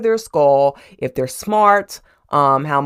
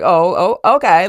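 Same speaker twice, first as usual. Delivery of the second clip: taken aback; 3 semitones higher, 7 dB louder than usual. Retold or imitated. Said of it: "Mister Pound's like".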